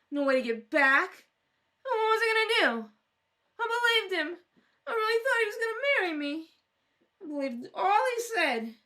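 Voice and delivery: teary, rambling complaint, trailing off; a drunk woman sobbing about the man who left her; weepy lament. Acted. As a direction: wallow in being left alone. Weeping over being abandoned.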